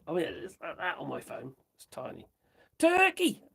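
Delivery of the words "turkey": high, louder exclamation of discovery; surprised exclamation. Real, not acted. Spotting Turkey on the phone, a surprised cry. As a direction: cry out as you spot it.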